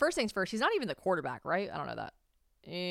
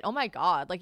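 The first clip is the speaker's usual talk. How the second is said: normal talking voice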